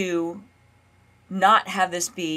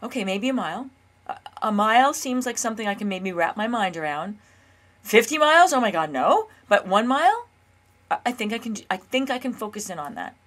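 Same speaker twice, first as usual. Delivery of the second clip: hesitant inner voice; 3 semitones higher than usual. Retold or imitated. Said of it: "my nervous system seems to say".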